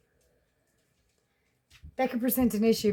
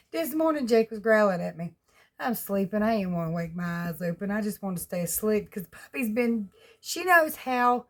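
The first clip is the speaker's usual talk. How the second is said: ordinary delivery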